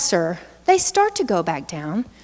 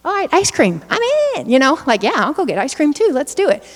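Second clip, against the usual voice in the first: higher, bright sudden enthusiasm; a kid who instantly forgets the tears; eager child; 4 semitones higher than usual. Retold or imitated. Presenter voicing a child after shots, pitched up and eager.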